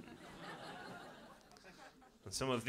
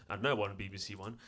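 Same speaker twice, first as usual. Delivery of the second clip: continuity announcer; 4 semitones lower than usual. Acted. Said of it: "Continuity guy".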